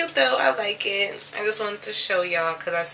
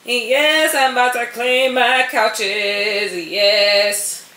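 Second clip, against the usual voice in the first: retold excited yes; 4 semitones higher, 5 dB louder, much slower than usual. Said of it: "I'm like".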